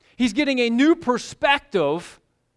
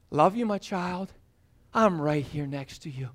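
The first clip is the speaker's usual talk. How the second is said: softer and lower, hushed; gentle loving whisper-soft voice; tender comfort; 4 semitones lower, 5 dB quieter than usual. Acted. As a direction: reassure a frightened child. God comforting his child.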